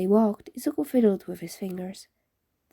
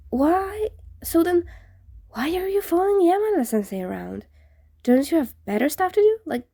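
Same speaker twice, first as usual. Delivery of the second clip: higher, fast probing questions; suspicious questioning; 3 semitones higher than usual. Acted. Izuku grilling the ghost, higher and faster. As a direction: push him with quick pointed questions.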